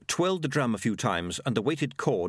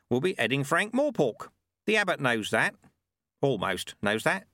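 put-on wry old sweeper, lifted voice; Lutze; 6 semitones higher than usual. Sweeper telling the lad how rulers work, wry. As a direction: explain it slyly as the old sweeper.

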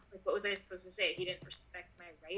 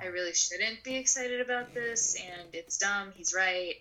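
ashamed inner voice; slower than usual. Retold or imitated. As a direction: shrink into yourself, drawn out. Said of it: "I felt like".

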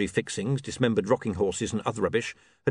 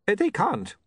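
high, mildly strained wizard; panting wizard; 10 semitones higher than usual. Acted. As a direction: blurt it high as if winded. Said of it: "the wizard panted".

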